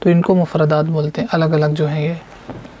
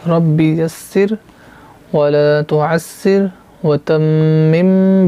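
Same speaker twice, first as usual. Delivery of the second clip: recited dua; much slower than usual. Shown as a demonstration. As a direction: recite the dua slowly and devoutly. (دعا آہستہ، ترنم سے پڑھیں)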